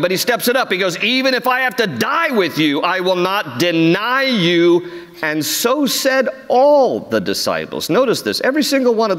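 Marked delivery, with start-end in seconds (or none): 1.0-4.9 bold vow. Retold or imitated.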